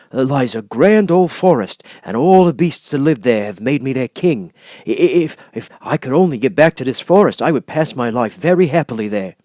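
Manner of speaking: a shy lion stumbling over his words; timid Lion. Acted. Lion telling Glinda of his forest, loud yet stammering.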